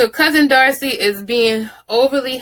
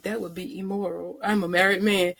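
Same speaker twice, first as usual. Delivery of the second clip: mock prim husband; 2 semitones lower, 8 dB quieter than usual. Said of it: "And he was like".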